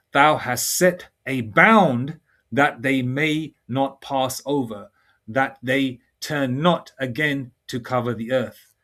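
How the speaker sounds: very slow, measured scripture reading; weighty, spaced-out Bible recitation. Acted. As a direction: read the verse out deliberately, phrase by phrase. Reads scripture aloud.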